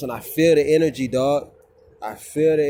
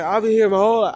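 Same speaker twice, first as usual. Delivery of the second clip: higher-pitched mock angry protest; retold angry yelling; 6 semitones higher, 4 dB louder than usual. Vlogger imitating the angry yelling friend, mock angry yell. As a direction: imitate an angry man's yell, only moderately raised. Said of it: "like, with anger".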